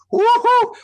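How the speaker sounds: high, loud woohoo of pure delight; thrilled cry of woohoo; joyful whoop. Retold or imitated. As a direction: whoop like a kid on a rollercoaster. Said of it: "I'm like".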